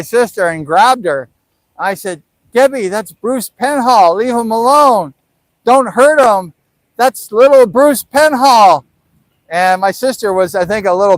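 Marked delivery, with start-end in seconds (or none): 2.5-8.8 higher-pitched mock pleading; imitated urgent intervention; retold protest. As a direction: call off your sister, hammed up. Retold plea to fighting sister.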